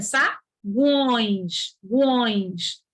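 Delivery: "sagões" very slowly, stretching "guões"; slow, low, stretched "guões"; u pronounced. Shown as a demonstration. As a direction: draw out the u glide in "gões", then repeat it. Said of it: "O U é pronunciado".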